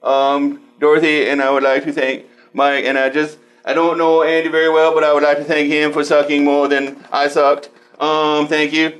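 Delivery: mock acceptance speech.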